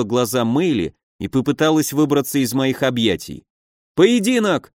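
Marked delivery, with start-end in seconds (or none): 3.9-4.7 high-pitched challenge, modest volume; mild yell. A narrator's reading. Nephew challenges the boyar to a duel, mildly yelled. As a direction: cry out a demand for a duel. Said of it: "заорал младший Соболь".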